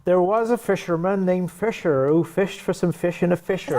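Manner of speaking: put-on tongue twister in a Bristol accent. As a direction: put on a West Country Bristol voice.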